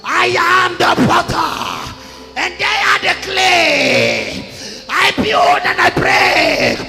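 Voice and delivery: shouted through tears; crying prophecy. Acted. Prophet voicing God's grief to Amos, crying out. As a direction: cry out the words, weeping.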